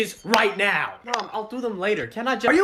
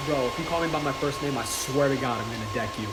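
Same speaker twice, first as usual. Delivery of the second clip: deep threatening voice; 9 semitones lower, 5 dB quieter than usual. Acted. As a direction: drop the voice much lower and quieter, menacing. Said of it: "How did you change your voice like that?".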